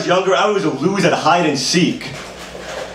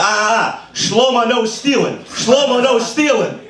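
higher singsong scolding; higher singsong "no stealing"; mock Dora scolding; 5 semitones higher, slower than usual. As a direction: wag a finger like Dora at Shlomo. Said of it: "I was like".

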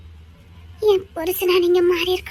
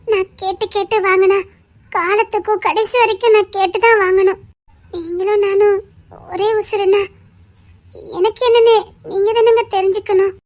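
earnest plea; 4 dB louder than usual. Acted. Wife passionately explains her need.

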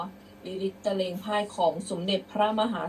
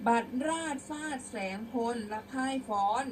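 higher-pitched careful model reading; prose-style recitation; 4 semitones higher than usual. Shown as a demonstration. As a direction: read out the verse clearly. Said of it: "เดี๋ยวครูจะอ่านเป็นร้อยแก้ว".

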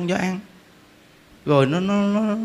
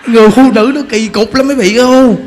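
louder, laughing, higher warning; 3 semitones higher, 7 dB louder than usual. Real, not acted. Warning the men in the audience, laughing loudly.

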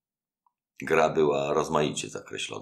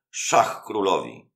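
slow, higher, louder announcement of check; triumphant call; 6 semitones higher, 5 dB louder, slower than usual. A narrator's reading. Anastazjo calls check on the host, slow and triumphant. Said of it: "Anastazjo zawołał".

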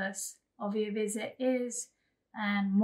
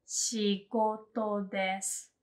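仕事です said slowly, syllable by syllable; slow teacher repeat; slower than usual. Shown as a demonstration. Teacher repeats for viewers, slowly. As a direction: model 仕事です slowly for the learner. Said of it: "you can say".

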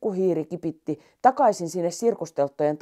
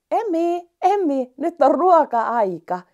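put-on higher, louder girl calling; 10 semitones higher, 5 dB louder, slower than usual. Sanna calling the lion for feeding time, high and loud. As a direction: call the lion in for dinner. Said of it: "tyttö huuteli tullessaan".

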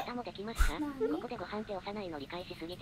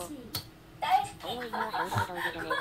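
loud laughing outburst, voice jumping high; laughing retort; 11 semitones higher, 7 dB louder, faster than usual. Real, not acted. Friend cracks up at the walk-button dog, loud laughing retort. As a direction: blurt it out through a laugh.

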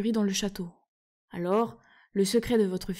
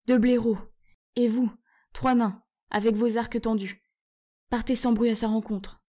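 loud, firm command; ordering; 3 semitones higher, 5 dB louder than usual. Acted. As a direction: give orders to the troops. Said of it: "ordonna Caspian".

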